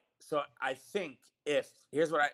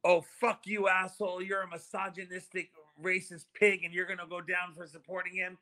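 retold angry outburst; 3 semitones higher than usual. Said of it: "she says".

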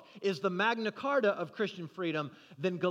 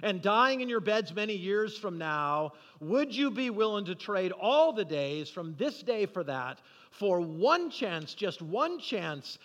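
measured rallying speech, a touch raised; retold battle cry. Retelling Wallace's speech to the troops, restrained battle cry. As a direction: deliver a movie speech with mild oratorical build. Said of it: "begins to cry out and says".

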